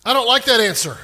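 acted indignant appeal, climbing in pitch; balking complaint. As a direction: push back, building from question to objection. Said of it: "you're going".

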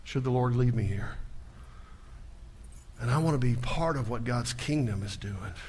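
normal talking voice

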